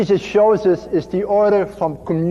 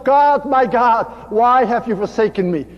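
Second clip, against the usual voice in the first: crying out; 4 semitones higher than usual. Retold or imitated. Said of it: "And he cried out".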